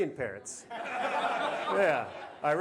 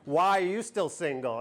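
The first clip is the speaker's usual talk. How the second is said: slow repeat of "Why are you still single?"; slow, pointed question; 3 semitones lower than usual. Retold or imitated. Dater asking why he is still single, slow and pointed.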